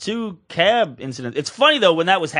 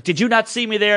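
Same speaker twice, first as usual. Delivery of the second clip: higher-pitched mock indignation; retold pissed-off lady; 5 semitones higher than usual. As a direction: imitate an irate woman demanding an answer. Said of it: "she was just pissed".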